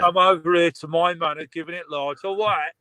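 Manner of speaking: punchy Cockney challenge; a local warning someone off in Cockney. Shown as a demonstration. Warning a stranger off his patch, mock Cockney. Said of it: "In Cockney".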